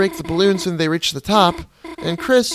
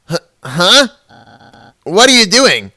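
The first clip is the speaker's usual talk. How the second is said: alarmed; 4 semitones higher, 8 dB louder than usual. Acted. Noelle alarmed.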